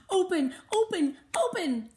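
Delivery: loud, high, insistent; impatient. A narrator's reading. Melody begging Missus V to open the box, loud and impatient. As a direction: demand it open now.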